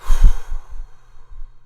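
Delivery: long loud exhale to calm down; big calming sigh. Real, not acted. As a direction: blow out a deep breath to reset. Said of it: "I'm gonna take a breath".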